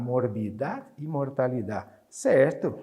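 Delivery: ordinary delivery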